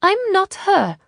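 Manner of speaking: put-on high, loud southern-accented denial; strong southern accent. A narrator's reading. Ishrak pretends to the stranger, strong southern accent. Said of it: "in the strong accent of a woman from the south".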